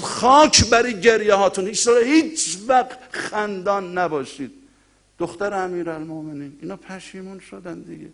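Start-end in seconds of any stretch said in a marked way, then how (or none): 0.0-4.5 stern rebuke. Retold or imitated. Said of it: "فرمود".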